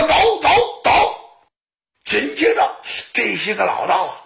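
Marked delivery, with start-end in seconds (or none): 0.1-0.9 high, punched repeated order; urgent command. Acted. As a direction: urge them on in high bursts. Monk urges his side on. (高声催促)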